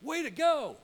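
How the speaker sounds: high, loud cheer; enthusiastic praise. Shown as a demonstration. Speaker showing how praise should sound, enthusiastic, high and loud. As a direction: shout it like real congratulations. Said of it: "here's the same words".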